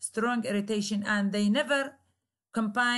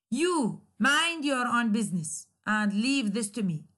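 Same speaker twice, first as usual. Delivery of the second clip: irritated command. Shown as a demonstration. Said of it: "express strong irritation".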